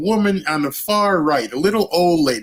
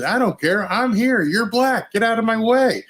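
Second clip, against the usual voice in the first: put-on higher, sneering old woman's voice; hammed-up huffy hag; mock angry old woman; 6 semitones higher than usual. The old woman telling the girl to move, high and sneering.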